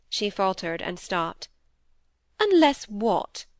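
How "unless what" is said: slow, higher, half-mocking challenge. A narrator's reading. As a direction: drawl it out with a teasing edge. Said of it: "half mocking".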